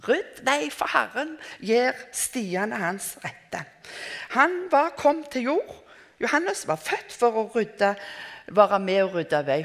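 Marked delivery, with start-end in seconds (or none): 0.1-3.6 utrop som en profet. Retold or imitated. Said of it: "Ropte det ut".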